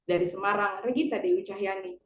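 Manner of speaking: steady formal newscaster delivery; news read. Acted. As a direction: read the bulletin like an anchor. Student reads news bulletin.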